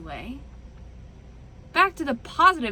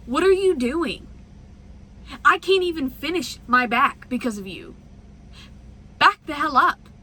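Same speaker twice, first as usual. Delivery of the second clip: retold yelling; 3 semitones higher, 4 dB louder than usual. Retold yelling at other trucker.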